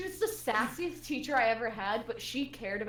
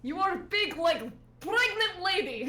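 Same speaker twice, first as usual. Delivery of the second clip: put-on slow, higher, louder Russian accent; 6 semitones higher, 4 dB louder than usual. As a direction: boom it out in a hammed-up Russian accent. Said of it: "can I change the accent".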